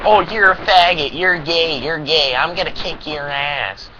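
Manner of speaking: a sneering schoolyard bully, starting loud and high then slowing down; mock the bully's taunts; a hammed-up bully jeering at a kid. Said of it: "I'm not gonna sit there and be like".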